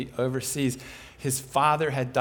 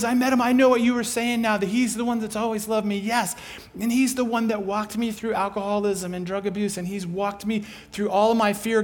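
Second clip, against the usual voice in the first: a touch higher and louder, glowing; grateful excitement; 5 semitones higher, 4 dB louder than usual. Retold or imitated. Neighbor thanking the speaker, lightly excited. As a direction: gush thanks warmly and quickly.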